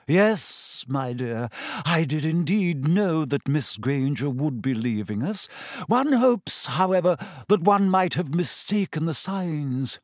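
a dreamy seer scolding the class; Trelawney's voice. Acted. Trelawney's smug reply.

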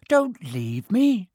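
high, loud, drawn-out wail; plaintive, high cry for company; frightened plea. Acted. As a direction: beg them slowly in alarm. Neville pleads not to be left.

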